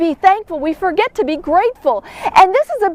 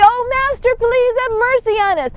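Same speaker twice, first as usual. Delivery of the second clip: higher, begging cry to the Master; pleading for mercy; 6 semitones higher than usual. Retold or imitated. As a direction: beg like a desperate leper. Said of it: "they're crying out for mercy".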